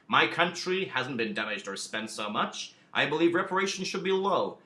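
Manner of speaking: put-on a mild, clumsy American accent as Wilson; lightly put-on American accent for Wilson; understated mock American accent; bad American accent. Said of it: "apologies for the awful American accent".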